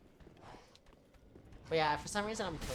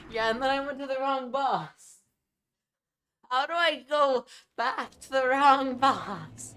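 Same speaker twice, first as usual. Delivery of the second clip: high squeaky voice; 9 semitones higher, 9 dB louder than usual. Pretend.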